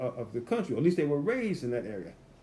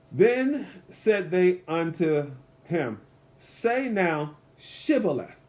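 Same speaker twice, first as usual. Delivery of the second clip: slow, measured Bible reading with long pauses; scripture reading; 3 semitones higher, much slower than usual. A narrator's reading. Preacher reads verse six to the congregation, slow and emphatic. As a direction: read the verse aloud slowly, word by word.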